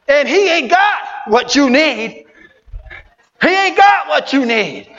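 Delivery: preacher shouting at the congregation; preaching shout. Acted. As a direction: hammer the line home. Preaching at full force.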